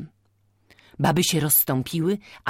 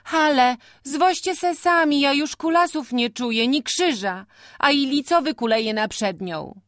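put-on tired young man; 11 semitones higher, 4 dB louder than usual. A narrator's reading. Antek refuses, tired.

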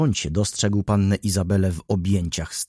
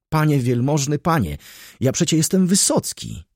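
high, louder frantic plea; pleading; 7 semitones higher, 4 dB louder than usual. Acted. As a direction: plead fast to calm him. Frightened trackman pleads. (wysokie, głośne, błagalne tłumaczenie)

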